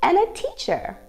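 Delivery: sing-song picture-book read, slow and lilting; reading to children. Acted. Teacher reading the book aloud to her young dance class, sing-song storytime.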